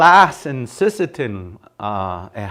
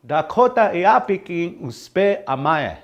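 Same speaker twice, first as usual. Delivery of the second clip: slowed down, easing off in volume; slow model phrase; 5 semitones higher than usual. Shown as a demonstration. Teacher repeats the phrase for learners, slow and measured. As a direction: take "Dakota Iapikin uspe amae" slowly, each word separate.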